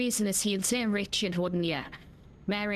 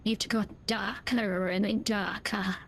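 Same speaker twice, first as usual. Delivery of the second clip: slow, ominous movie-trailer telling; dramatic narration; slower than usual. Acted. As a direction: build suspense like a thriller voice-over. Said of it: "I'm a dramatic actor".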